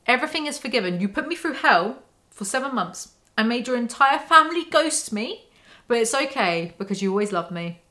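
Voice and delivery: a hint of a simpering, forgiving girlfriend; mock Bella. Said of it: "Bitchy behaviour would automatically be better than".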